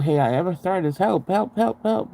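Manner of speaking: begging the doctors for help, mock pleading. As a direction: plead like a helpless patient, voice climbing. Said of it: "it was always about".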